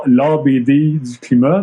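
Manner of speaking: Montreal French pronunciation, drawn out slowly; Montreal accent. Shown as a demonstration. Explaining why the series title's pun fails, in a Montreal accent. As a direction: say it in your own Montréalais accent. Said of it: "moi, avec mon accent montréalais".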